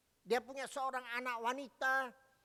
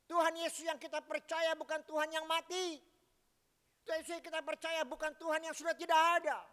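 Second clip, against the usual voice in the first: put-on raised, earnest child's voice of faith; daughter's plea; 5 semitones higher, 4 dB louder than usual. Daughter urges her weeping mother not to fear, raised and fervent. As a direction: lift the voice high and urge mother to trust.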